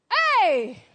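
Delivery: loud, sharp cry of disbelief; loud exclamation. Acted. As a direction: bark it out at the excuse. Exclamation after the Asoebi example.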